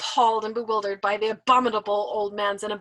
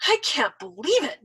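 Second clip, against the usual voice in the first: grudging; 5 semitones higher, 4 dB louder than usual. Acted. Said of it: "Nately remarked grudgingly".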